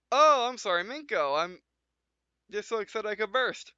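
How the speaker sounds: bursting with excitement, lightly voiced; excited Alicia. Alicia apologizing to Minko, lightly excited.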